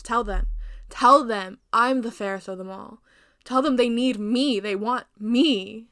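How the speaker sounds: loud, frantic demand; desperate shouting. Acted. Queen shouting frantically at the silent mirror.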